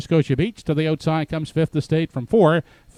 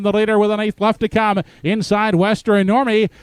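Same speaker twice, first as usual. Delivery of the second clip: building race call, rising high and loud; race caller; 3 semitones higher, 4 dB louder than usual. Acted. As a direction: drive the stretch call to the wire. Stretch call building to finish.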